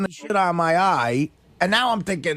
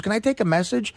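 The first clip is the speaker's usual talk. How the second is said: lightly sweet imitation of the nurse. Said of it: "very sweet voice".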